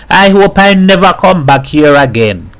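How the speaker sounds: a neighbour pouring out her worry over her man; lightly voiced troubled woman confiding; worried Mrs Herrera.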